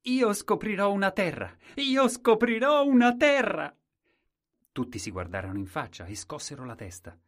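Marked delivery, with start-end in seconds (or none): 0.0-1.5 loud, high shout. Acted. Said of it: "e gridò". 1.8-3.7 even higher, louder, slowed-down yell; bigger slower shout. Acted. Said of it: "e gridò".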